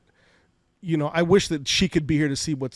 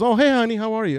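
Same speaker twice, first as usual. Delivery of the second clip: much higher, louder, bright mock mom greeting; imitating mom; 8 semitones higher, 4 dB louder than usual. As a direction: mom cheerfully greeting her son on the phone.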